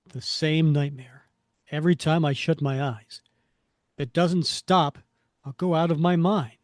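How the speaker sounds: loud, urgent comic-book monologue; mildly hammed-up desperation; distraught hero. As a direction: fret aloud, driving through each phrase. Voices Cap fearing for sanity.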